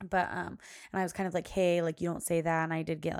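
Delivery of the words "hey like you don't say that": louder retold scolding; mean tone. Mom correcting her daughter for saying shut up, mean tone. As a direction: tell the child off firmly, louder. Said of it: "my mean tone on".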